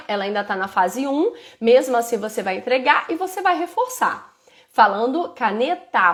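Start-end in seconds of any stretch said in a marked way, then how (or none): 5.3-6.1 "caneta" com o A final esticado; prolongado. Shown as a demonstration. ("caneta" com a sílaba final alongada)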